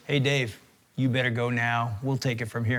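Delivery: a hint of a buttoned-up coach giving permission; stern coach. Head coach dismissing the chaplain, in a dry, quiet voice. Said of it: "he goes".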